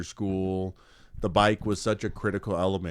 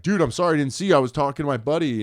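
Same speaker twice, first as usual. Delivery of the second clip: retold apology; 6 semitones higher, 6 dB louder, much faster than usual. Buddy's retold apology to cop.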